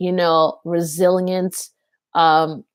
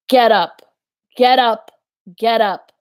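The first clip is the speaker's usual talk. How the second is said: urgent command; 4 semitones higher, 5 dB louder than usual. Retold or imitated. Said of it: "He is saying".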